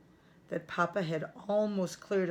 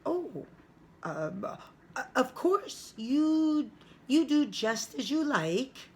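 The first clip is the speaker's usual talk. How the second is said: startled mother; 6 semitones higher than usual. Acted. Mama startled by the outburst.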